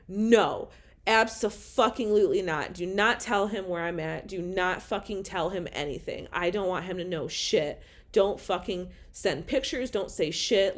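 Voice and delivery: loud, firm mock yell at mom; snapping no at her mother; retold angry refusal. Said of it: "And I'm like".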